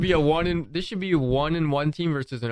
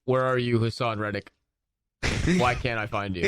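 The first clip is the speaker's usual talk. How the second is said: a lower take on the Grinch; deep Grinch voice; 5 semitones lower than usual. Pretend. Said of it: "Don't you wanna do that in the deep voice?".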